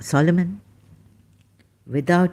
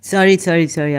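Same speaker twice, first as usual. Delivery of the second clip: laughing apology; 4 dB louder, faster than usual. Real, not acted. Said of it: "I'm laughing at myself".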